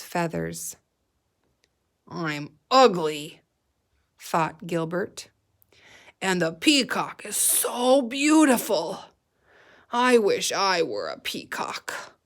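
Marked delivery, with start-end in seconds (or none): 2.1-3.4 lightly voiced sad fat pig, slow; a gentle pig grumbling about himself. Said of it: "I'm trying to sound like a fat pig". 6.2-12.1 put-on pig voice, wistful; a chubby pig wishing he were a peacock; fat pig voice. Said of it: "I'm trying to sound like a fat pig".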